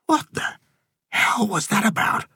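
very high-pitched, incredulous question; baffled disbelief. A narrator's reading. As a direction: dare to speak up, astonished. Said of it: "Wade dared to speak".

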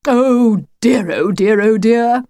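mild mock lament; theatrical dismay. The wolf despairs of Lucy's schooling, mild theatrical dismay. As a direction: tut grandly over a hopeless pupil.

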